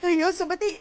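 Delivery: a crying call for help; wife calling the niece through tears; tearful cry. Acted. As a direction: sob out her name.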